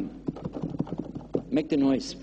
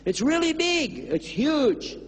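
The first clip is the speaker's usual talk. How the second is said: urgent insistence; 10 semitones higher, slower than usual. Acted. Urging man about huge train.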